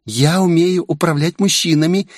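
put-on a touch of cunning girlish pride; slyly. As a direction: brag of wrapping men round your finger. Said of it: "хитро произнесла Минами".

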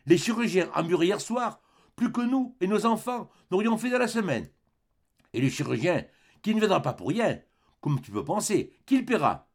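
an aggrieved wife's rising tirade; scolding wife. Acted. Wife scolds husband over the stranger.

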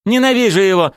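high, heated burst of anger; angry. A narrator's reading. Valeria raging about her ex-husband, angry. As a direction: spit out the hatred. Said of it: "разозлилась Валерия".

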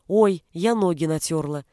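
squeaky whiny girl impression; mock her whining in a squeak; squeaky mocking mimic. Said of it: "передразнил он писклявым голосом".

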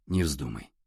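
a touch of breath caught in a hushed warning; choked. A narrator's reading. Ярослав objects to forgetting his lives, mildly choked. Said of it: "чуть не задохнувшись".

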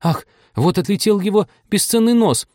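намного выше и громче, взвизгивая; взвизгни, будто тарелка летит прямо в нос; испуганный визг. A narrator's reading. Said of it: "взвизгнула она". (Аня взвизгивает от страха за нос младенца)

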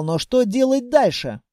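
plain reading voice

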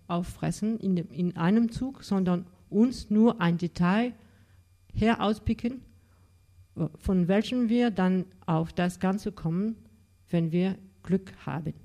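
measured German literary reading, phrase by phrase; reading aloud in German. Shown as a demonstration. Lecturer finishing a short Bernhard extract for the audience, deliberate German reading. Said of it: "faire sonner la langue de Thomas Bernhard".

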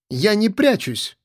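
put-on high, slow girlish protest; Ella protests from the doorway, high and indignant. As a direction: insist you're not hiding.

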